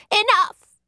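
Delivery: high, strangled order; strangled tones. A narrator's reading. Upset maid cutting off her companion's mimicry, strangled. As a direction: choke out a command to stop. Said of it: "ordered the other in strangled tones".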